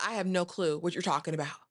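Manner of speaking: lightly acted, even-toned denial; understated denial. Bertha denies knowing about the Duke, understated denial. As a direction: play it cool and unruffled.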